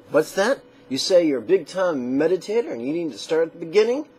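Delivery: playfully mock the imagined student; mock incredulous.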